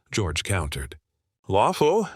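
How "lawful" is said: snapped. A narrator's reading. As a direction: bite the word off hard. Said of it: "Trump snapped".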